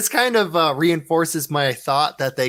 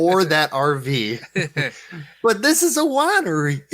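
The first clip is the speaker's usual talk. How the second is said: put-on Australian accent; 2 semitones higher than usual. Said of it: "That was a great Australian accent".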